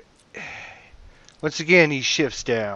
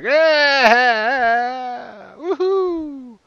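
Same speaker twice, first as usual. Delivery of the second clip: high, drawn-out crowd cheer; creatures' little roar; 13 semitones higher, 8 dB louder, much slower than usual. Acted. Creatures cheering as the player misses, high little roar. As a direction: roar and whoop like watching creatures. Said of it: "let out a little roar".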